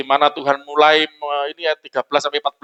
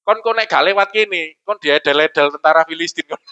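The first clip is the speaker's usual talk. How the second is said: Surabaya Javanese. Pretend. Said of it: "Kalau saya jadi Tuhan".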